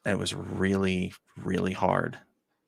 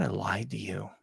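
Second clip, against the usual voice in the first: hushed confession; 6 dB quieter than usual. Retold or imitated. Confessing a lie to old love.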